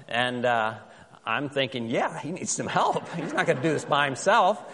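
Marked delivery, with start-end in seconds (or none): 1.9-4.6 chuckling through a joking aside; laughing. Retold or imitated. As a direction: laugh while saying it, half joking. Joking inner thought, laugh heard.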